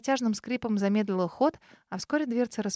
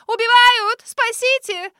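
much higher and louder screams; hysterical wailing; 12 semitones higher, 8 dB louder, slower than usual. Acted. Lady flees screaming for help, hysterical. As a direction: cry murder down the street. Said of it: "заголосила ненормальная особа".

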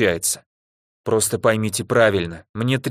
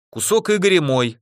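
eager, higher-pitched claim; enthusiastic; 7 semitones higher than usual. A narrator's reading. Narrator claiming Igor's piece of cake, enthusiastic. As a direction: stake a claim with gusto. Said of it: "с энтузиазмом направляясь из комнаты".

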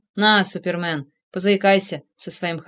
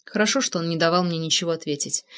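usual speaking voice

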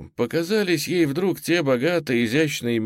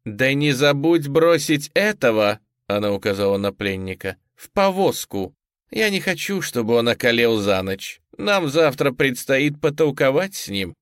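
gritted teeth, higher and cold; through gritted teeth; 5 semitones higher, 3 dB louder than usual. A narrator's reading. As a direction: squeeze the words out with contempt. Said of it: "Перед уходом процедила".

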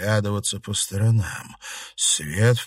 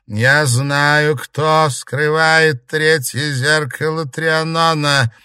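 slow, loud, high eerie crone voice; a dead old woman bargaining from the mirror; old ghost; 7 semitones higher, 7 dB louder, much slower than usual. A narrator's reading. Ghost of an old woman bargains with the club in slow eerie voice.

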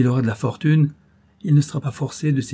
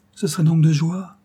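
ecstatic; 5 semitones higher, 3 dB louder than usual. Acted. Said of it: "avec un regard extatique".

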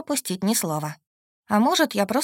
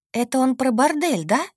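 higher-pitched, startled realisation; shocked gasp; 5 semitones higher, 3 dB louder than usual. A narrator's reading. Girl suddenly understands the brothel remark, gasping. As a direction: blurt it out in dawning shock. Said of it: "ахнула я".

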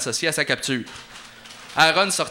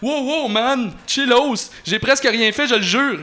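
much higher, laughing panicky slacker; stammering slacker; 9 semitones higher, 4 dB louder than usual. Acted. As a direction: babble your innocence, man. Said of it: "bredouilla Poutric".

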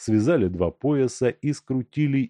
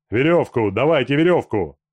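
louder urgent call for rope; shout; 4 semitones higher, 6 dB louder than usual. A narrator's reading. Gusterin calls to his gang while pinning Makarka, shouting. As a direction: yell for the rope mid-struggle. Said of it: "кричал он".

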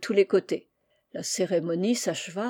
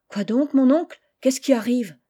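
put-on higher, eager child's question; lightly voiced curious boy; 5 semitones higher, 5 dB louder than usual. Young Laurent asks his uncle. (petit garçon curieux, voix plus aiguë)

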